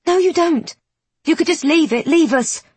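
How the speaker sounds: high, pleading, on the edge of breaking; voice about to break. Acted. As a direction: hold back a breaking voice. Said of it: "Wren's voice has a slight warble to it".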